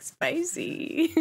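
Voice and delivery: mock high spicy; light imitation of "spicy"; imitating spicy. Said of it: "when you were like".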